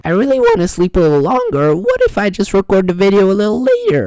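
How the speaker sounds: high, loud, whining plea; whiny voice. Shown as a demonstration. Tempted to sleep in, self whines high and loud. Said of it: "when I imagine myself saying".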